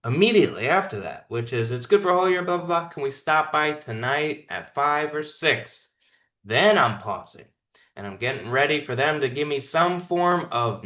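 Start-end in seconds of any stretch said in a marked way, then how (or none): 1.7-5.9 demo close. Shown as a demonstration. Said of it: "moving into the close immediately".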